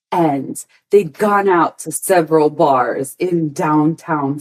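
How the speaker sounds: slow, hushed story-time narration; storytelling voice. Shown as a demonstration. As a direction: tell it like a campfire tale, slowly. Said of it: "I'm gonna do this in my storytelling wor-, uh, voice".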